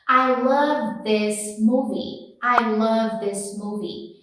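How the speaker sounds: "I love this movie" slow, with a short i in "this"; slow sentence demo. Shown as a demonstration. Teacher slowing the sentence down for students. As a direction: spell out "I love this movie" slowly. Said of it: "Você pode falar".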